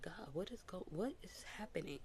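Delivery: breathy, hushed question to God; whispered plea to God. Retold or imitated. Asking God what is happening, in a whisper. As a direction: whisper it like a private prayer. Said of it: "And I'm like".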